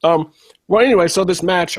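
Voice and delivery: chewing an apple while talking; mouth full. Real, not acted. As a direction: talk through a bite of apple. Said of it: "I'm sorry, I'm eating an apple".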